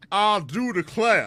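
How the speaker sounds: put-on shrill, very high, very loud old Southern lawyer voice. Improvising in court, possessed by an old-time Southern lawyer: old-time Southern lawyer voice. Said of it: "possessed by an old time Southern lawyer".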